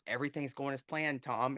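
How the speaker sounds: unruffled reply, imitated. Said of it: "the guy looks at him and goes".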